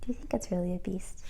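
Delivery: fast, secretive whisper. A narrator's reading. Narrator asking the children, in a fast whisper. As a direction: whisper the question.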